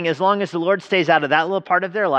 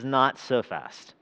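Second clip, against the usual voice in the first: slow, softer, measured command; Yahweh halting the prophet; 5 dB quieter, much slower than usual. Acted. God calling back the departing prophet, slow and measured. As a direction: stop him slowly, with quiet authority. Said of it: "Yahweh's voice comes to him and says".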